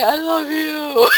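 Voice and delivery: a sweet I love you that sounds like a knife; nice with an edge. Retold or imitated. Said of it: "can you hear it?".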